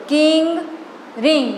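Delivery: કિંગ and રિંગ said separately with matching -ing endings; pronunciation demo. Shown as a demonstration. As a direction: model the rhyme, pausing between કિંગ and રિંગ. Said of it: "હવે ઉચ્ચાર બોલો". (કિંગ, રિંગનો છૂટો પાડેલો સરખો ઉચ્ચાર)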